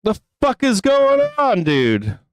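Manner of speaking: high-pitched, exasperated demand; real anger, voice jumping up in disbelief; angry. Real, not acted. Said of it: "fucking angry right now".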